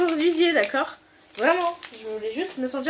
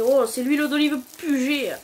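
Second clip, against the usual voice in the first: mocking ad voice. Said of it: "comme dans la pub".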